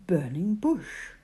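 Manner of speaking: breathy hushed whisper on burning bush. A narrator's reading. Narrating to children, hushing the burning bush in a whisper. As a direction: whisper it like a secret.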